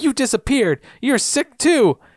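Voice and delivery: acted high, shrill screaming. Retelling a scene where she screams at him: imitating someone screaming. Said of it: "she starts screaming at him".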